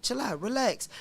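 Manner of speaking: calm. Shown as a demonstration. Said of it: "hey, bro".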